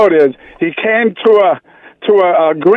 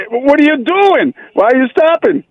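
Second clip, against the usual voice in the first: mock-panicky passenger; 6 semitones higher than usual. Passenger panics at the red light.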